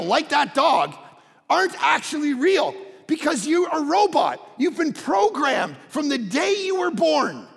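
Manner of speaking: forceful, driving sermon with punched key words; preaching. Real, not acted. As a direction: hammer the point home to the congregation. Preaches to congregation.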